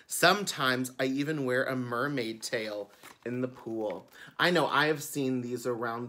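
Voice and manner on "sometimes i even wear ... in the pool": bright storytime reading; children's book narration. A narrator's reading. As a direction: read it like a picture book to kids. Reads the book aloud.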